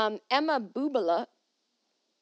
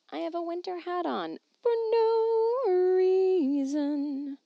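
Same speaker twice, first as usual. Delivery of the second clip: amused; 10 semitones higher, 4 dB louder, slower than usual. Real, not acted. Silly self-mockery.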